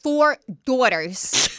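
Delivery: put-on drawn-out DAUGHTERS in Teresa's accent. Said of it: "love the way you say daughters as her".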